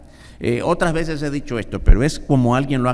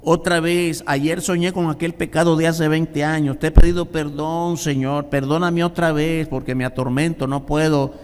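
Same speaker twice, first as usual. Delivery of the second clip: a light pleading plea, higher; pleading believer; 4 semitones higher than usual. Acted. Troubled believer pleading with the Lord. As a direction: beg the Lord. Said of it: "como cuando alguien dice".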